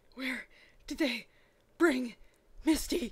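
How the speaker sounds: breathless, out of breath. A narrator reads a man who ran into a hospital, at the front desk: breathless.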